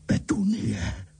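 slow, gasping whispered name; breathless gasp. A narrator's reading. Uncle gasps for his wife, breathless whisper. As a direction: choke out her name without breath. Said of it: "Nemohl popadnout dech".

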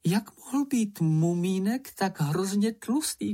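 a fussy lady wondering aloud, slow; drawn-out high character voice; high slow lady's voice. Acted. Fillyjonk voice.

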